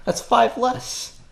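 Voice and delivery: put-on slow indignant kid correcting; high slow kid voice haggling. Kid haggling over gold.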